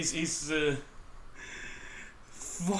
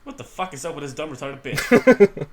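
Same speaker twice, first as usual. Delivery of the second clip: loud read insult; 11 dB louder than usual. Acted. Reading insulting comic line aloud.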